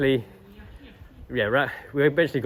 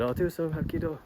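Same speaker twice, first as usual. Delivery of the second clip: higher, changed voice asking; old man imitation; 7 semitones higher, 4 dB quieter than usual. Old man asking for a Hapkido demo, high mock voice. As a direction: ask for a demo in his voice.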